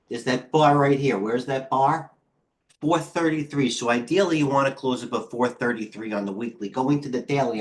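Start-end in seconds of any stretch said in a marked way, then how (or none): 4.4-7.6 breathless, puffing between words; out of breath. Real, not acted. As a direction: talk while short of breath. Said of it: "I'm out of breath".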